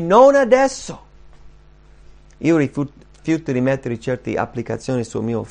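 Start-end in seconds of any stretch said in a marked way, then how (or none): 0.0-1.1 high, loud, drawn-out refusal; emphatic, stretched "not now"; telling others off. Acted. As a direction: fend people off with a raised voice. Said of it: "dire agli altri".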